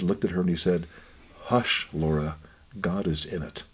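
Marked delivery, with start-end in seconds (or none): 1.4-3.6 low, quiet, tender reassurance; gentle, kind hush. Retold or imitated. Dying husband comforting his crying wife, gently and quietly. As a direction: hush her kindly, softening toward the end. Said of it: "very kindly, very gently".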